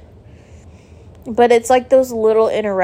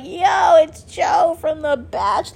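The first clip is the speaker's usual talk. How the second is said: excited fan shout; 9 semitones higher, much slower than usual. Pretend. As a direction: shout it like a starstruck fan spotting him. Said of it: "I was gonna be like".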